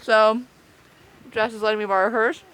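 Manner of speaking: talking through a toothbrush; while brushing teeth. Real, not acted. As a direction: speak round a toothbrush. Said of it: "I'm brushing my teeth currently".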